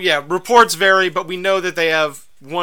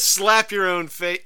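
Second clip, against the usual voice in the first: put-on German accent; 3 semitones higher, 4 dB louder, slower than usual. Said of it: "he says".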